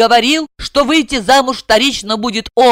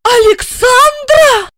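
very high, slow outraged repeat of the name; flaring up; 5 dB louder, much slower than usual. A narrator's reading. Wife flaring up on hearing the rival's name. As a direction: flare up at the name. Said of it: "вспыхнула Ася".

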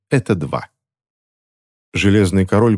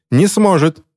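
high, brief narrated cry; 10 semitones higher than usual. A narrator's reading. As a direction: cry it out with pitch well up. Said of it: "крикнула Селен Палмер".

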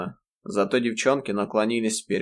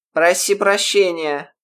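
требование; 9 semitones higher, 6 dB louder, slower than usual. A narrator's reading. Грейс требует извинений.

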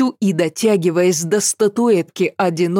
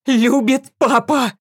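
defiant shout; 7 semitones higher than usual. A narrator's reading. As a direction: hurl it at the demon. Girl defying the demon.

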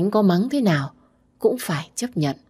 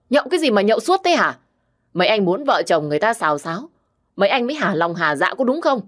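angry scolding woman; 3 semitones higher than usual. Acted. Sister scolds drunk brother, friends.

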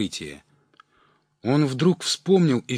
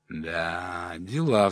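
sighing; 4 semitones lower, much slower than usual. Acted. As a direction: sigh it out like a put-on regret. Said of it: "вздохнул пожилой".

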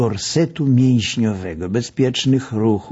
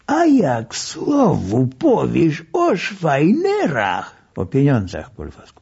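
doctor jokingly threatening the patient; syllable by syllable; 7 semitones higher than usual. A narrator's reading. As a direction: tap out each syllable. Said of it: "sylabizował".

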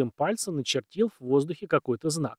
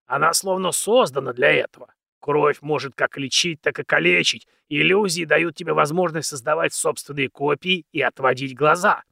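put-on very old man; 2 semitones higher, 5 dB louder than usual. Old man continues fervently.

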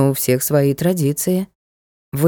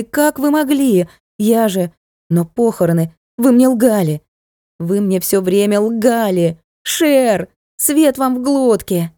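furious accusation; 4 semitones higher than usual. Acted. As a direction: hurl the accusations at them. Daughter raging at deceivers.

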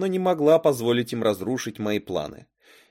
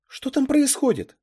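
put-on high-pitched, louder girl's question; добрая София; 5 dB louder than usual. A narrator's reading. Girl in the mirror asks what is happening, high voice. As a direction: call out in a high character voice. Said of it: "спросила добрая София".

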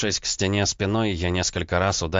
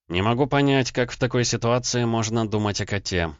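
smiling; 5 semitones higher than usual. Acted. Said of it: "улыбнулся я".

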